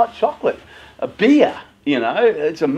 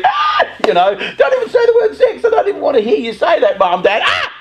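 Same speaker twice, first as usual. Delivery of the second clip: put-on high, loud squealing teen, laughing through it; laughing mock-panicked shriek of a teenager; horrified teen; 5 dB louder than usual. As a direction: play the mortified kid who won't hear it.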